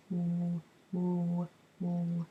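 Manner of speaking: clipped "w-" repeated, imitating the little girl; child's approximation. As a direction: say only the "w-" of "water", three times. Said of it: "her approximation".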